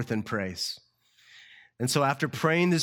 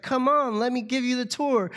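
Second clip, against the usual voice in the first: high, louder, pushy sing-song hostess; insistent hostess; 12 semitones higher, 4 dB louder than usual. Retold or imitated. Hostess insists on showing Larry round, high and pushy. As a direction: coax him into the tour. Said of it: "She's like".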